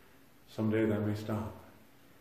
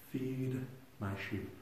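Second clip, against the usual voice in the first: slow, softer, tender instruction; gentle command; 7 dB quieter, slower than usual. Retold or imitated. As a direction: lay each word down slowly and kindly. Preacher quoting Jesus to Peter.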